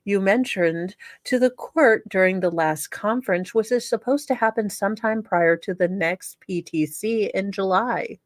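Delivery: lightly voiced prim letter writer, self-righteous; reading the letter in character. Host reads inmate's letter to viewers, a lightly voiced prim letter writer. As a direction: read it like the wronged letter writer, only a touch put-on.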